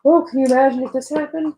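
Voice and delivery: mock gasp. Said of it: "so heated about something".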